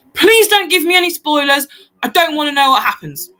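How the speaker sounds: acted pleading. Young girl begs the group for no spoilers, mock pleading. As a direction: imitate a girl begging, easing off at the end. Retelling a girl's plea.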